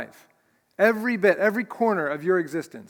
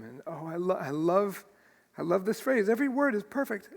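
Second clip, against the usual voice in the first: soft, moved, halting on the first words; real emotion catching while savoring a loved verse; choked up; 5 dB quieter than usual. Real, not acted. Preacher cherishing a phrase he loves, choked up. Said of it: "I'm getting choked up already".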